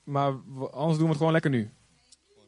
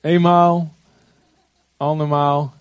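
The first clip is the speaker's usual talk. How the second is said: auctioneer; 2 semitones higher, 8 dB louder, slower than usual. Pretend. Calling bids before baptisms.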